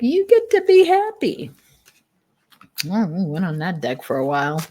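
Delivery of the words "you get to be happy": lifted high, light quoted voice; a lightly voiced spirit speaking through; high voiced spirit quote. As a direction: pass the message up high and bright. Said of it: "She's like".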